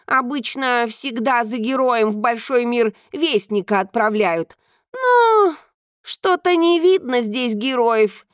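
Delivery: a hint of a proud cat; lightly voiced cat. Cat speaking.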